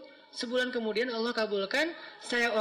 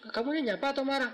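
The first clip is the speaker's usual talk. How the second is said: startled question; 5 semitones higher than usual. Retold or imitated. Wife startled by a harsh greeting.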